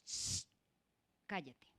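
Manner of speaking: soft shushing, cut short; mock hushed "shh, cállate"; hushing someone. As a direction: shush them quietly. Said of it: "una persona le dijo".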